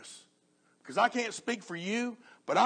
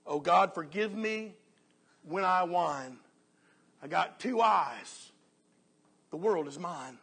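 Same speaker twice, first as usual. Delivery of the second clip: dramatic recital in measured, separated phrases; preacher reciting verse with long pauses; poem recitation. Acted. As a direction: recite a moral poem, lifting the verses and dropping the refrain. Recites a remembered poem aloud.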